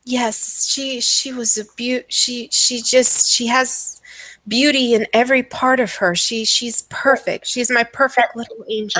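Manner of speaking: lightly voiced doting mad mother; adoring madwoman. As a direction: stumble with a touch of rapt adoration. Game master plays doting mad mother.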